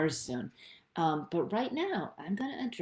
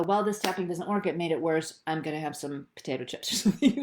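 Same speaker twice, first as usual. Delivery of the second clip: giving up; 4 dB louder, faster than usual. Retold or imitated. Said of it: "Don't go".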